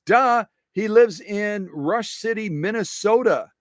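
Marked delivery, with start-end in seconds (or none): 0.1-0.5 a higher, louder duh at himself; mock-dumb duh; self-mocking duh. Real, not acted. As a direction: scold yourself playfully. Mocks his own mistake.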